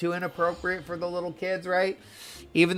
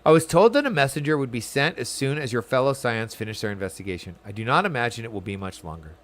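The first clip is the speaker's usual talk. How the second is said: lightly acted formal quest-giver; dialogue read aloud; 3 semitones lower than usual. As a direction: read it as measured, courteous game dialogue. Reads game character's dialogue aloud.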